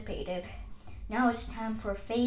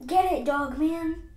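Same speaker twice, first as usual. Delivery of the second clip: raised, loud urging; urgent call; 6 semitones higher, 7 dB louder than usual. Acted. Sending Dog Man after the runaway wagon, urgent call. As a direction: call out an order to chase it.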